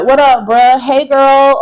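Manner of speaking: lightly mock someone faking Black slang to fit in; forced, imitation-casual code-switched greeting; put-on slang greeting. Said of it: "you don't talk like that".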